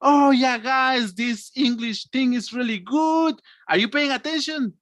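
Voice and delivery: high, gushing enthusiasm; hammed-up happy teacher. Shown as a demonstration. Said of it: "I change from happy".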